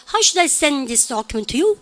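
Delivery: slow rhythm landing on "send" and "document"; stress on content words. Shown as a demonstration. Teacher showing how it comes out, stress on "send" and "document". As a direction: ride the beat onto "send" and "document". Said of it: "이렇게 나오죠".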